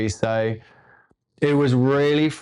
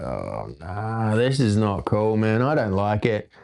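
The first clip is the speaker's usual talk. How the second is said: muttered pain; 3 semitones lower than usual. Retold or imitated. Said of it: "it's just like".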